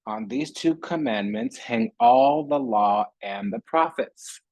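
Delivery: slow, solemn scripture reading; a light solemn Bible recitation. Acted. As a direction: read it like the King James Bible, measured. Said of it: "I was just reading the Bible".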